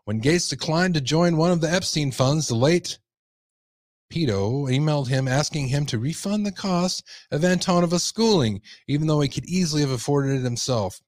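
emphatic news-story read; projected article narration. Acted. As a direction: read out the report like a newscaster.

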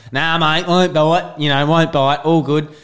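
a hint of a carefree wildlife showman; Steve Irwin. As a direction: retell it as an unbothered snake handler. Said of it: "Steve Irwin's up there".

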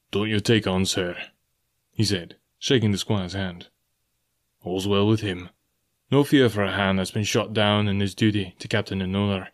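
a hint of a stern captain comforting the squire; gruff old captain.

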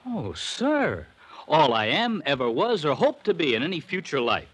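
a hammed-up, solemn legal-style oath of devotion; mock flowery tribute. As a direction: gush over the boss like it's a contract clause. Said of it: "only saying that because it's in my contract".

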